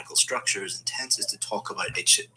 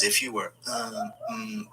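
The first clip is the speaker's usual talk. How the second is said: demonstrated hesitation; 3 dB quieter, slower than usual. Shown as a demonstration. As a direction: stall on a drawn-out um. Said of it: "you're trying to think of the correct".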